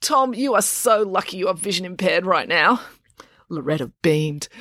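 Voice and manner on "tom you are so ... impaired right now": put-on nauseated girl. April sickened by the kiss.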